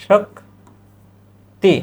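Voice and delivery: শক্তি drawn out very slowly with a falling end; slow teacher demo; slow pronunciation demo. Shown as a demonstration. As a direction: stretch শক্তি so students hear each sound. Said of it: "আ".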